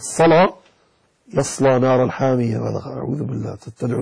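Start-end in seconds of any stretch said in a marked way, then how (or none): 0.0-0.5 صلاة ending on an open "aa"; dropped ha. Shown as a demonstration. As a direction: say صلاة as "salaa" without the final h. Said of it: "وإلا إذا قلت".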